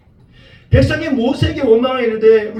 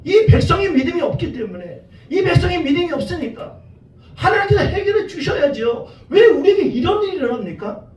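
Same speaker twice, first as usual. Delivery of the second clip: acted complaint; 3 semitones higher than usual. Preacher as Moses asking God why he was called, complaining. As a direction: plead and protest to God, voice climbing with each question. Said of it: "모세도 똑같은 원망을 했을 거란 말이에요".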